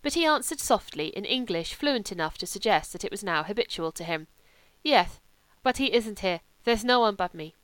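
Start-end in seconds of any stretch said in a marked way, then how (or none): 4.8-7.5 put-on louder, lightly accented young German; a hint of a lazy wolfish German drifter; German legionnaire. German voiced in the story.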